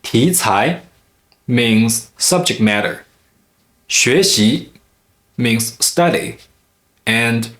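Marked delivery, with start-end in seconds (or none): 0.0-0.8 题材 with both syllables rising; two second tones. Shown as a demonstration. Teacher giving an example word, 题材 in rising tones. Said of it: "two consecutive second tone syllables". 3.9-4.7 学习 with both syllables rising; two second tones. Shown as a demonstration. Teacher giving an example word, 学习 in rising tones. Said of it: "two consecutive second tone syllables".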